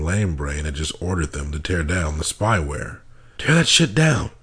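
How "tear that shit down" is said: high, loud angry shout. A narrator's reading. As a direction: bark it at the room. Mark shouting at agents.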